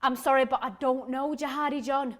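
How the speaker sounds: polite, even-voiced apology; measured, civil correction. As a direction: decline courteously and evenly. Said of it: "I say politely".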